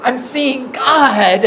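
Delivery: drawn-out, awestruck wow; slow, mock-overwhelmed amazement; freaking out. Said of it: "freaking out, going".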